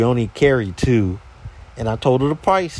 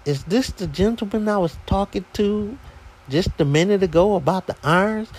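higher-voiced lady on the phone; lady caller; 5 semitones higher than usual. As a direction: imitate a customer asking, pitched up. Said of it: "And she goes".

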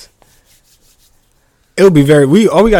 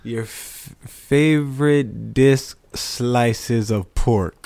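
imitating British; 2 semitones lower, much slower than usual. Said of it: "he said".

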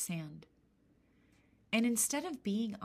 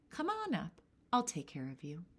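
put-on old hag voice. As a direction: coax her up kindly. Old woman invites.

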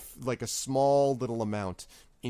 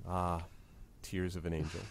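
the whole tavern murmurs it, much softer and lower; reverent hush; 6 semitones lower, 11 dB quieter than usual. Retold or imitated. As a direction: breathe the name in awe. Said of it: "they're just sort of like".

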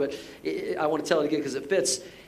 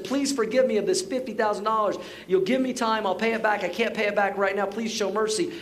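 slightly raised, hurried-along entreaty; mild pleading; 3 semitones higher than usual. Retold or imitated. Servant to master over his debt, mildly pleading. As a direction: imitate begging with a touch of urgency. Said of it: "the servant begged the master".

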